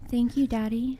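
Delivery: whispered, coy thanks; playful whispered thank you; teasing whisper. Acted. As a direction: breathe it like a tease. Teasing thanks to a big donor.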